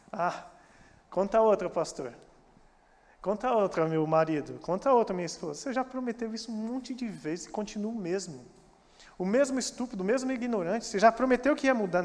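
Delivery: mildly scornful, punching "mesmo"; a sarcastic spouse who has heard it all before; mock scoffing spouse. Spouse scoffing at the partner's empty promise, sarcastic.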